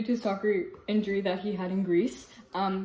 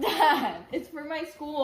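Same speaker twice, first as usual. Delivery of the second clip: laughing plea; 6 semitones higher, slower than usual. Real, not acted. Pleading with laughing dad.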